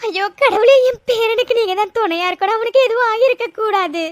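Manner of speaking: grandmother weeping out a plea to God; tearful prayer. Acted. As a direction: beg God through tears. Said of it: "ரெண்டு பேரும் அழுதுட்டு இருக்கீங்க".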